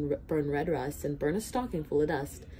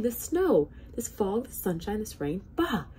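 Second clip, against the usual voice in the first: angry king; 5 semitones higher than usual. Acted. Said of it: "he started shouting".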